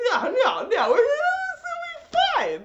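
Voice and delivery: very high, slow mock reassurance; sarcastic. Fan mocking Suzaku's plan, high and drawn out. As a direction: draw it out with heavy sarcasm. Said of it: "sarcastic mock reassurance".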